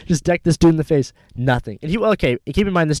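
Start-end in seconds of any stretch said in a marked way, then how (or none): 0.0-1.1 high, loud retelling through laughter; laughing. Real, not acted. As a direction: laugh your way through the confession. Laughing at own story after reaction.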